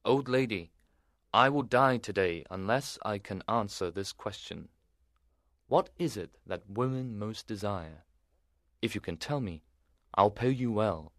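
put-on a worried young knight begging; desperate knight. A narrator's reading.

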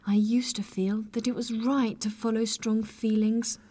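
high woman's voice, a touch of misery; miserable. A narrator's reading. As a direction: confess it sadly. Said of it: "said Maggie miserably".

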